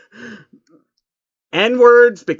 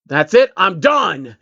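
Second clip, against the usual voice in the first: calmly stated; 4 semitones higher, 4 dB louder, slower than usual. Acted. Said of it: "Shining stated calmly".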